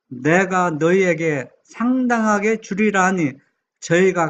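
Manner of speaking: slow, measured Bible reading; scripture reading. Real, not acted. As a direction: read the parable aloud slowly, phrase by phrase. Reads a Bible parable aloud. (천천히 또박또박 성경 봉독)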